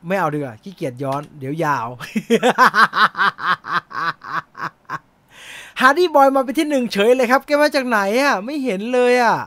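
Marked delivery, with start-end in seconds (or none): 1.9-5.0 burst of laughter. Real, not acted. Host laughing at the quiz result. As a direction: laugh it out, genuinely amused.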